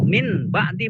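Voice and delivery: "min ba'di" with a plain n; wrong reading with a clear n. Shown as a demonstration. Teacher showing the wrong reading with a clear n.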